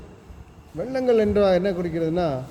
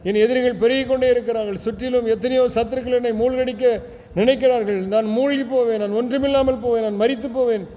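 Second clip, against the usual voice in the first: higher, pleading wail for help; lamenting cry; 4 semitones higher than usual. Acted. Preacher voicing drowning David crying to God, higher lament. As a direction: beg the Lord to pull you from the mud. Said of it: "பதினாலுல புலம்புற".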